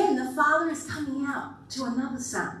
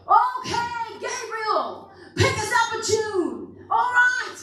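higher, bright call to the angels; higher, lively call for a song; God calling the band; 8 semitones higher, slower than usual. Retold or imitated. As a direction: call for a tune like a party host. Preacher voices God calling for music.

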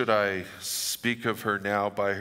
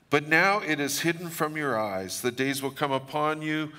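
weeping Jesus; 4 semitones higher than usual. Acted. Jesus weeping over Jerusalem, a hint of a higher lament. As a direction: let Jesus plead over the city, lightly done. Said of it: "And he said".

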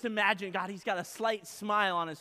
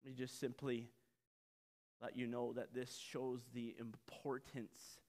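ordinary talk

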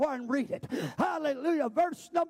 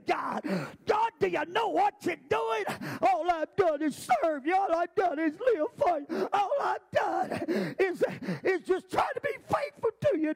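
accusing cry to God; 3 semitones higher than usual. Acted. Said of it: "he would argue with him".

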